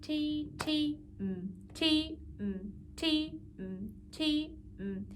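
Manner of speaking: tongue a crisp T, then a closed-mouth mm; T T counting method. Shown as a demonstration. Teacher demonstrating the T T counting method, crisp Ts and hummed rests. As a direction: say T on each note and hum mm on each rest. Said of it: "another way that we can count it".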